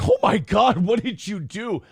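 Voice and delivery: horrified. Retold or imitated. Kids reacting to dad's outburst, horrified. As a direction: imitate appalled, amused children. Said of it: "like, that horrified laughing".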